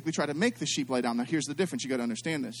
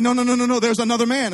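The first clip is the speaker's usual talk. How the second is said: mock panic; 9 semitones higher, 9 dB louder than usual. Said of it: "she's like".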